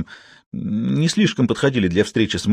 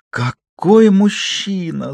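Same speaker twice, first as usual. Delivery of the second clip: much higher, slow, swooning; enchanted sing-song; 10 semitones higher, much slower than usual. A narrator's reading. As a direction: sing it out, spellbound. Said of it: "заворожённо пропела". (заворожённо, нараспев)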